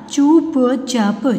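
चुपचाप very slow in held pieces; syllable by syllable. Shown as a demonstration. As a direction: sound out चुपचाप slowly. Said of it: "फिर ये सारे बोलने". (चुपचाप को तोड़-तोड़ कर, धीरे)

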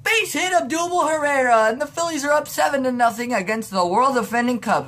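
excited sportscaster call; announcer voice. Retold or imitated. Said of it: "the announcer's all like".

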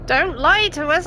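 stiff computer voice; robot voice. Retold or imitated. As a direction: read it like a robot. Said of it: "I read that in a robot".

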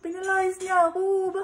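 tearful fake sob; fake crying. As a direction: pretend to be crying for a prank. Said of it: "I thought you were crying".

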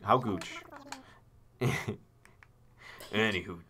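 lightly voiced fussy owl lecturing; a hint of a pompous old curator; Blathers voice. The owl explaining a bug to the player, lightly pompous.

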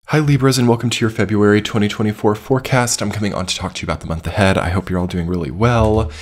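slightly hoarse from a cold; scratchy voice. Real, not acted. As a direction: talk through a scratchy throat. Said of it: "pardon my scratchy voice today".

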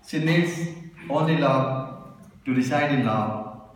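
measured love poem, drawn-out phrases; poetry recital. Acted. Poet reciting to the lovers present, measured recital. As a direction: recite line by line, pausing after each image.

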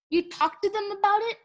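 high surprised question. A narrator's reading. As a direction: ask in disbelief. Clay surprised.

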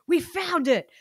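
mock excited. Archaeologists finding a USB.

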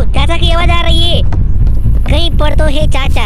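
loud, high alarmed shout about the uncle. Real, not acted. Gamer to his friend, panicking loudly about the uncle. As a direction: yell out in panic that he's close. Hears the scary uncle nearby.

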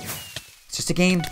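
slow, drawn-out forced calm; slow mantra. Real, not acted. Gamer talking himself down after losing, slow and strained. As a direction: stretch each word, barely holding it together.

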